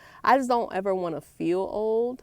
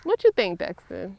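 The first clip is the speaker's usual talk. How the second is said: higher, louder playful prodding; teasing question; 9 semitones higher, 5 dB louder than usual. Real, not acted. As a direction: poke at him with a loud tease. Teasing her son Dexter.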